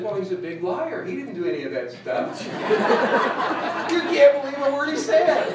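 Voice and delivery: owner's line dissolving in laughter; laughing punchline. Retold or imitated. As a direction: burst into laughter on the last line.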